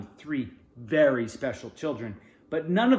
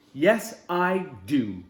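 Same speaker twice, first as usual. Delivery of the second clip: happy yes; 2 semitones higher, 6 dB louder, much slower than usual. Acted. Sebastian answering Jack, loud and happy. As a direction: burst out yes. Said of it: "Sebastian says".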